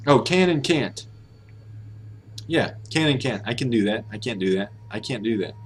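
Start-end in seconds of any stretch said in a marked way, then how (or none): 3.5-4.1 light, reduced "can"; "can" kept weak, no T; unstressed can. Shown as a demonstration. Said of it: "the intonation is different on can't". 4.1-4.7 full vowel on "can't"; "can't" stressed, T barely released. Shown as a demonstration. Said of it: "the intonation is different on can't".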